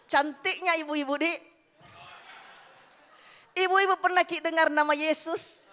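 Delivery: put-on loud, laughing Makassar accent, slow. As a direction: coax the ladies in a Makassar accent. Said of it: "dalam logat Makassar".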